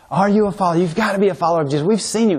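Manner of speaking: put-on accusing servant girl. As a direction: corner him with the question. Acted courtyard accusation.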